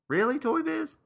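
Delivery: exasperated. Real, not acted. Mocking a lame toy choice.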